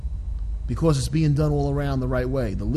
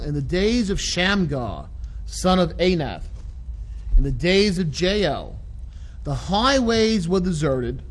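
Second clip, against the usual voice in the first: scripture reading. Acted. Reads scripture slowly.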